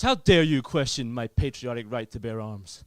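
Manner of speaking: emphatic mock American outrage; annoyed American cousin. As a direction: imitate an outraged American patriot. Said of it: "He get really annoyed".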